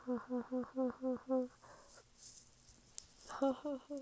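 joyless spelled-out ha-ha-ha; hollow laugh. Real, not acted. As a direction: laugh weakly through the stress. Joyless laugh after dose remark.

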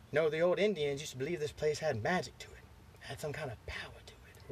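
put-on storytelling old man, fading to a whisper; hint of eerie lore, dropping away at the end; lightly voiced old neighbour.

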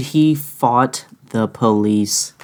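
"fought the police" drawn out slowly, word by word; slow, weighty stress on "fought" and "police"; emphatic disbelief. Real, not acted. Cashier amazed customer fought the police, stressing "fought".

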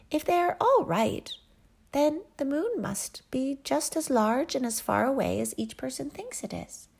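high, bouncy jester voice, eager to help; a playful fool bounding in; the court jester. A narrator's reading. Jester reasons it out.

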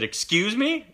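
high, sharp indignant "excuse me"; mock offended sub. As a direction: imitate a teacher who heard an insult. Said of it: "And then she said".

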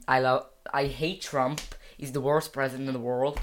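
Northern Irish accent, Derry lilt. Shown as a demonstration. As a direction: say it like someone from Derry. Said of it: "The accent I was doing there was Derry".

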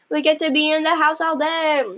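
high, happy dog voice; voicing the dog. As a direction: chirp it like a delighted dog. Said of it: "My dog".

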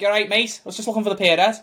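put-on Scouse accent; mock Scouse, slightly lifted pitch; imitating John Bishop. Posing as comedian guest in interview, imitated Scouse accent. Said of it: "Interview John Bishop, and I'm like".

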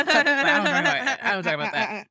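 high, loud, fast frustrated groan into the words; hammed-up exasperation; exasperated refusal. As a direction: blurt it out, cornered and annoyed. Shane refusing to discuss Shayna.

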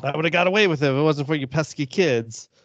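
a hint of a foiled cartoon villain; mildly hammed-up busted crook; Scooby-Doo villain line. Quoting the Scooby-Doo villain to tease, mildly hammed-up. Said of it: "That's what Scooby-Doo does".

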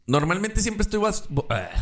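words stretched by a yawn. Real, not acted. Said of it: "normalmente siempre estoy bostezando".

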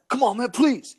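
high-pitched mock begging; exaggerated high plea; pleading beggar. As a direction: imitate a desperate panhandler, voice pushed up high.

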